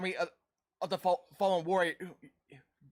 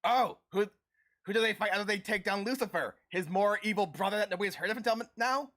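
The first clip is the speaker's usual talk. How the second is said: slightly higher-pitched mock complaint; mock exasperated quote; 4 semitones higher than usual. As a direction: lightly act out a snarky gripe. Acted snarky quote from Supernatural.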